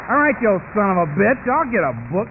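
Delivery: mildly hammed-up loud surrender; loud, irritated concession; grudging retort. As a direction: give in while cursing him. Acts out grudgingly giving in, swearing.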